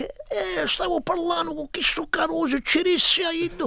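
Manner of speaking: telling stories to relatives in Sicilian; speaking Sicilian. Retold or imitated. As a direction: rattle it off in Sicilian, high and lively. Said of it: "I'm speaking Sicilian".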